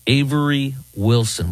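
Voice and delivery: ordinary talk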